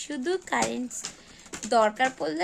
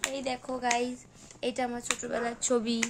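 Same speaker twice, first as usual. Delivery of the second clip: vlogger demo; 4 dB quieter than usual. Shown as a demonstration. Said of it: "এরম করে দেখাও সবাইকে".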